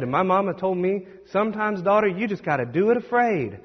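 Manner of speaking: imitated deep, thick accent; Sadie Robertson. Preacher retells a mama's advice to her daughter in a thick accent. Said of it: "she got that deep, thick accent".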